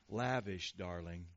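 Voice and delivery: put-on low, drawling Hungarian-accented glamour line; Zsa Zsa or Eva Gabor, Hungarian accent. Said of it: "I almost hear Zsa Zsa or Eva Gabor".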